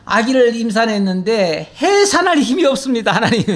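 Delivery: imitated helpless plea, breaking into a laugh; Hezekiah. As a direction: mock-desperate prayer, lightly amused. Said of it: "히스기야의 기도처럼". (웃음 섞인 무력한 기도 흉내)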